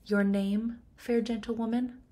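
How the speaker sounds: high, mocking question; mock king. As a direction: sneer as the king who pretends not to know her. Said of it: "then says".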